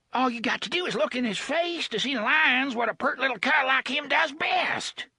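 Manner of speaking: high, pleading bluster; the thug tries to shift blame; desperate thug. Acted. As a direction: plead hard, pointing at the boy. Gasher pleading accusation.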